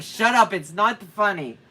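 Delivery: laughing protest. Retold or imitated. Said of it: "I was like".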